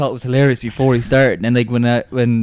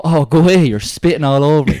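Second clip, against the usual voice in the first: raised, rude brush-off; cheeky teenage whine; 5 semitones higher, 5 dB louder than usual. Retold or imitated. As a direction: sneer it like a brat. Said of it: "just go".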